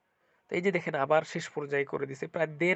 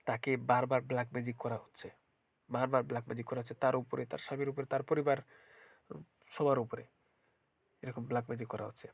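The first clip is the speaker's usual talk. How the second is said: speaking with a blocked nose; stuffy nose. Real, not acted. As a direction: talk through a head cold. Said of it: "ঠান্ডায় নাক বন্ধ হয়ে গেছে". (নাক বন্ধ গলায়)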